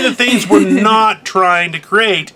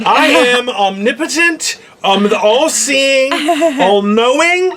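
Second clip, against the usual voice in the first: mock grand; 4 semitones higher, slower than usual. Mock godlike boast.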